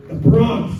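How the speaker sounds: put-on big-breathed Bronx accent; Bronx from the lungs. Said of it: "is in the lungs".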